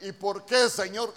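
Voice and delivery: loud, high mock cry to God; imitating a frustrated why; mock complaint. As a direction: mimic the believer demanding answers. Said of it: "a veces nosotros".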